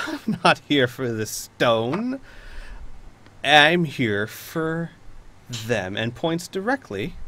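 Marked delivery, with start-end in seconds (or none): 0.1-6.0 slow, deliberate villain reveal; armored villain. Acted. Knight to the party, slow menacing reveal. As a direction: drag out the threat, pause before them.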